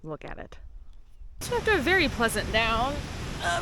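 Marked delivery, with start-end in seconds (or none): 0.0-0.6 hushed awe. Real, not acted. Awed repeat, hushed.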